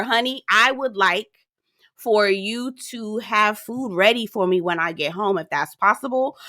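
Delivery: mild, considerate mock request; polite request. Shown as a demonstration. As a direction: ask courteously, taking your time. Models a polite request to wife.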